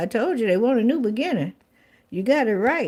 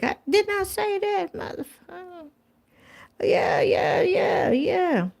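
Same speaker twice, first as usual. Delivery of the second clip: high, hooting yells of triumph; excited outburst; 9 semitones higher, 3 dB quieter, slower than usual. Real, not acted. Reader cheering her own prediction, excited high yelps. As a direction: crow that you called it, pitch way up.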